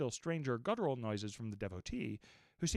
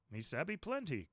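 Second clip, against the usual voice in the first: grunting; 4 semitones higher, 4 dB quieter than usual. Acted. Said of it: "grunted Queequeg".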